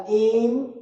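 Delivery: इम्पॉर्ट pulled apart as इम, pause, पॉर्ट; broken into syllables. Shown as a demonstration. Teacher breaks up the word, इम्पॉर्ट in separated beats. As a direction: leave a long gap inside इम्पॉर्ट. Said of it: "तो क्या बनेगा?".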